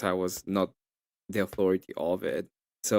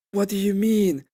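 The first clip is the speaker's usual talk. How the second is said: mock puzzled opponent; 10 semitones higher, 4 dB louder than usual. Opponent's reply in retold argument.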